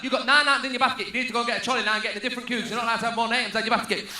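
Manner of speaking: mock cashier rant. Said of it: "Says things like".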